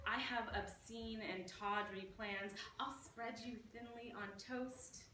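playful poem read with relish; poetry reading. Acted. Poet reading her silly Nutella poem to the audience, with relish. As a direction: savour each line like a guilty treat.

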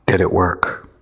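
low, firm yet gentle question; strong but soft. A narrator's reading. Tony quietly challenges ego, firm yet soft. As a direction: press gently but with strength. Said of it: "his voice stronger but his tone soft".

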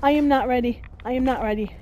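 frantic repeats, high and loud, settling down; panicked pleading. Real, not acted. Panic right after the ambush.

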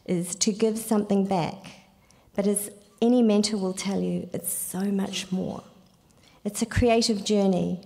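put-on a loosely done British accent, Kiwi showing through. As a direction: read it in a rough British accent. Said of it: "do this in a British accent".

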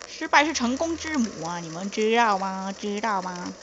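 a light put-on mainland Chinese accent. Gamer preaches to viewers in a mild mainland Chinese accent. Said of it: "我干嘛用中国人的口音讲话".

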